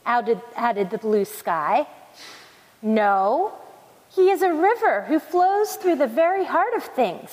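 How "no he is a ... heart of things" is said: raised pitch, emphatic narrated declaration; mildly thundering. A narrator's reading. Waterfall correcting the blue sky, mildly thundering. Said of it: "thundered the waterfall".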